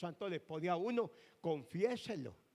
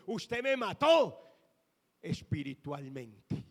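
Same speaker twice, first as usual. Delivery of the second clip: tearful accusation; 6 dB louder, slower than usual. Retold or imitated. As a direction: drag it out as her weeping voice. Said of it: "me dijo, llorando". (acusación dolida y lenta, imitando el llanto)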